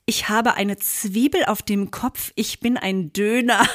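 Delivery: über-korrekt Hochdeutsch: „Ich habe eine Zwiebel“ fully spelled out; slow, every syllable proper like Thomas Mann; posh, proper German. Retold or imitated. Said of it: "Du sprichst es richtig adlig aus". (vornehm und langsam ausgesprochen)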